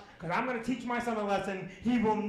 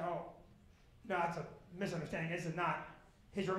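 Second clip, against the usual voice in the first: mock-gentle correction; 4 semitones lower, 8 dB quieter than usual. Dad feigning calm correction.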